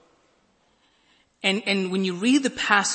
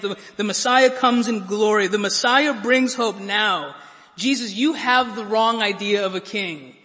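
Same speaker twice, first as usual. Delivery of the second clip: raised, louder protesting disciple; Peter protesting; 3 semitones higher, 6 dB louder than usual. Retold or imitated. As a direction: push back on Jesus with loud disbelief. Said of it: "do you remember what he says?".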